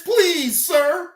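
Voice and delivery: lightly mocking a plea; mock pleading. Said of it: "Now look at you now".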